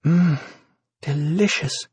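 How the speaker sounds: sighing softly with mouth full; soft contented sigh around food. A narrator's reading. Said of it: "she sighed softly, mouth full".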